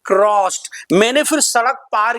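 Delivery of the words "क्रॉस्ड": crossed as one syllable ending in a t sound; past-tense pronunciation. Shown as a demonstration. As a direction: say क्रॉस्ड as "krost". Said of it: "क्रॉस नहीं". (क्रॉस्ड, आखिर में ट की आवाज़ के साथ)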